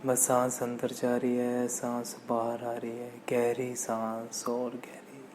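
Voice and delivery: slow, even meditation voice; guided meditation. Acted. Meditation teacher leading listeners to watch the breath, calm guided meditation. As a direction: guide breathing calmly, letting phrases stretch out.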